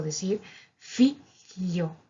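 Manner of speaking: "figlio" said slowly as fi-llio; slow gl split. Shown as a demonstration. Teacher breaking the word down for learners, slow. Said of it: "podemos hacer esto".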